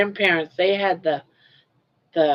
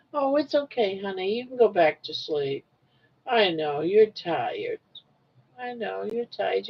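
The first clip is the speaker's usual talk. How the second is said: soft, tender talk to a sleepy pet; quiet comfort for a tired pet; soothing; 3 dB quieter than usual. Real, not acted. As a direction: hush her gently back to sleep.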